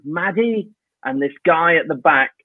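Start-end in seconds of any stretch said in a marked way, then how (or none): 0.1-0.7 lightly voiced little kid; a hint of a child's answer; imitated child's voice. Kid gives name to panto host, lightly imitated. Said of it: "like that".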